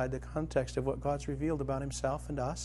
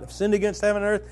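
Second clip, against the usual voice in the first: rehearsing under his breath; 7 semitones higher, 6 dB louder, faster than usual. Retold or imitated. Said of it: "practicing your line".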